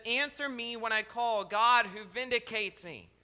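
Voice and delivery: measured, solemn reading of a psalm; lightly intoned Bible reading; scripture reading. Acted. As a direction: read the psalm like a prayer. Quotes the psalm again.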